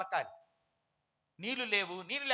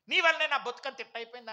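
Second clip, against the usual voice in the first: mock complaint; 5 dB louder, faster than usual. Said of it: "అంటారు ఎందుకు".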